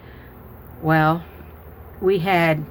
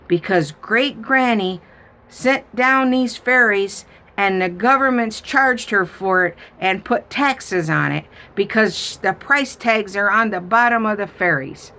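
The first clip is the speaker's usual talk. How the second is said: put-on higher, louder childlike explanation; explaining little girl; 5 semitones higher, 4 dB louder than usual. Granddaughter explaining fairy taxes, high childlike voice. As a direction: explain it like an earnest small child.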